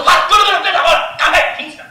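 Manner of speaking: loud, high, hurried protest; hammed-up flustered God. God comically begging Abraham to stop praying, loud and hurried. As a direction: play God rushing to stop the prayer.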